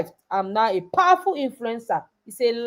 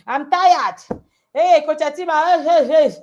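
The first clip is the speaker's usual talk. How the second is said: high, louder whine calling for Coach Etima; whiny tired girl; 4 semitones higher, 5 dB louder than usual.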